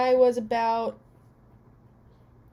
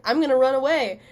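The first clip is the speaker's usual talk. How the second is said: mock kid threat; 3 semitones higher, 7 dB louder, faster than usual. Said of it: "I was so mad".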